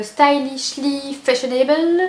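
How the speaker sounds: "Stylishly Fashionable" said slowly in a French accent, each syllable careful; careful French-accented reading of an English shade name. Real, not acted. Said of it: "pardonnez mon accent".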